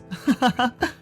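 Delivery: nervous laugh. Acted. Dave backing away from Sal, laughing nervously. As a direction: laugh awkwardly as you back away. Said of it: "Laughing nervously".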